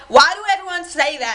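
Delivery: imitated thick Southern twang; put-on Southern accent. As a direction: mimic an overdone Southern accent, fishing for attention. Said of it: "overly thick Southern accent".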